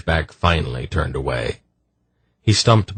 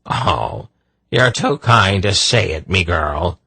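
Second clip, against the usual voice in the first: Irish brogue; 2 semitones higher than usual. Acted. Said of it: "extravagant bow".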